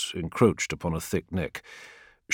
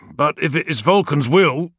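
higher, louder loyal warrior; dutiful warrior; 8 semitones higher, 6 dB louder than usual. Acted. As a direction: yield with dutiful trust. Zaitos's voice.

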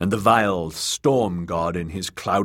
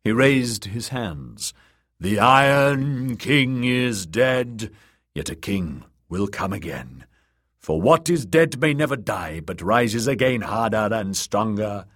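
solemn sermon rising in force; prophet preaching; 3 semitones higher than usual. Acted. Priest preaches to the drowned men.

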